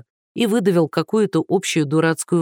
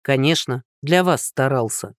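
offended sarcasm; 3 semitones lower than usual. Acted. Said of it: "обиделся Андрей".

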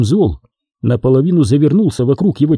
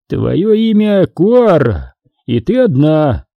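triumphant reveal; 3 semitones higher, slower than usual. Acted. Sith reads her mind triumphantly.

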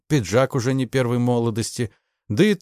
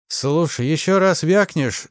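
louder, higher menacing warning; threatening; 7 semitones higher, 4 dB louder than usual. A narrator's reading. The major threatening Ignashevich, loud and menacing. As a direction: warn him off, threat in every word. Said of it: "с угрозой сказал тот".

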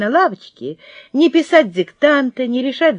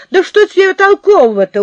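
mocking laugh; 4 semitones higher, 5 dB louder than usual. Girl mocking friend, laughing.

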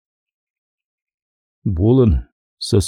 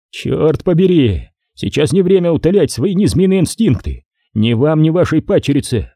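mildly heated, higher-pitched rebuke; irritated Nick; 4 semitones higher than usual. Acted. Nick rebuking the major's urges, mildly irritated. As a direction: scold with a touch of exasperation.

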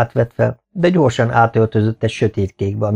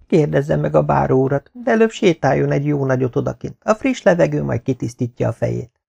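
slightly raised voice of an advising servant; a hint of a practical maid counselling her mistress; lightly voiced maid; 5 semitones higher than usual. (enyhén magasabb, tanácsot adó szolgálólány)

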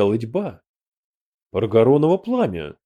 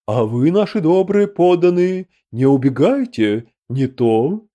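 commanding call; 4 semitones higher, 4 dB louder than usual. A narrator's reading. Emperor threatens fleeing marauders.

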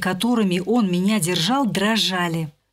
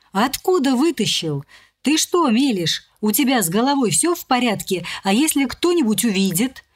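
slightly higher, panicky squeal of protest; shrill squeal; 4 semitones higher than usual. Acted. Polya squealing at Gleb who dragged her in, mild squeal. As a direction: squeal it out in alarm, not a full scream. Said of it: "Взвизгнула я".

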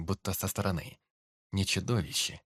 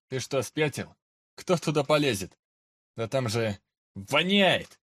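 scornful; 4 semitones higher, 5 dB louder than usual. Acted. Soldier mocking the idea.

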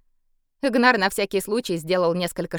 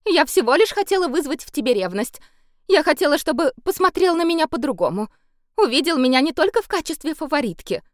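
tearful pleading; 10 semitones higher, 3 dB louder than usual. A narrator's reading. Favourite pleading through tears.

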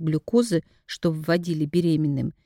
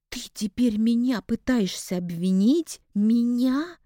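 higher and higher in disbelief, peaking on Меня; indignant outburst; 5 semitones higher than usual. A narrator's reading. Anna, outraged at Nikolai blaming her, bursts out higher and higher. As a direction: explode with outrage, voice climbing. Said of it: "Анна взорвалась от возмущения".

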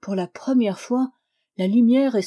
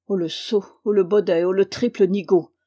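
louder jeering insults; cried-out mockery, each "oh" a jab; dwarf's mocking cry; 4 dB louder than usual. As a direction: fling the insults out loud. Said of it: "lui cria le nain".

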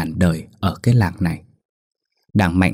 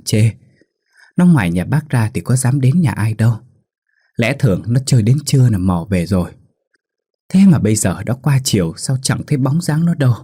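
put-on worried old woman, raised pitch; anxious stammer; 2 semitones higher than usual. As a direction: fret and stumble over words. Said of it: "mồm lắp bắp".

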